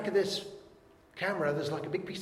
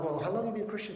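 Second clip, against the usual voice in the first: mock questioner; 6 semitones higher, much faster than usual. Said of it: "It's not like".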